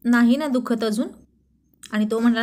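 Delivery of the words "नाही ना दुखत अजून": a touch of anxious concern; worried. Acted. Wife asking husband about his hurt eye, mildly worried. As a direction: gently check if he's still hurting. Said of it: "ती काळजीने म्हणाली".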